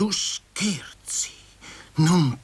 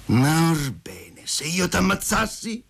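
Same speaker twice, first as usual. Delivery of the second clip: sudden cry; 7 semitones higher, slower than usual. A narrator's reading. Man suddenly threatens Masha, crying out. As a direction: burst out with a threat. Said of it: "gridò egli improvvisamente".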